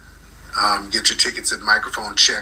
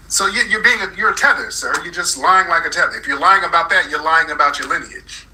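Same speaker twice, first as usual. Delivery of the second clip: higher, insistent scolding; heated accusation; 5 semitones higher than usual. Real, not acted. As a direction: press the accusation at the caller. Accusing caller in a quarrel.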